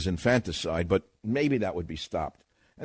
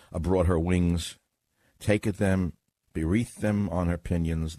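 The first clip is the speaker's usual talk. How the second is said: scripture reading; 2 semitones lower than usual. Acted. Host reads Deuteronomy to listeners, measured recital. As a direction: read out the verse solemnly, phrase by phrase.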